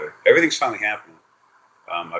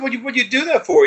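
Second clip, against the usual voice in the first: much higher, louder put-on outrage; mock outraged yell; 5 dB louder than usual. Scolding his energy again, high mock yell. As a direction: screech the question up high, hammed-up. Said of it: "And I said".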